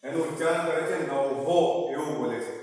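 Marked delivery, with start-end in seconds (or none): 1.0-1.6 "નવહો" with a "ho" echo ending; wrong pronunciation. Shown as a demonstration. Teacher showing a common mistake, mispronounced "નવહો" ending in "ho". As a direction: end "નવહો" on an added "ho". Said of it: "આનું ઉચ્ચારણ ખોટું કરતા હોય છે".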